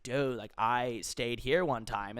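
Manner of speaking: slow chill-dude impression; super high guy. Uber driver swapping stories with passenger, slow chill drawl. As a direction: lightly drawl it like a stoner. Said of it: "guys who sounded super high".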